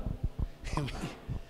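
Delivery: quiet, low chuckle; small amused laugh; soft chuckle. Real, not acted. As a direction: chuckle softly under the story. Amused by the lady's trick.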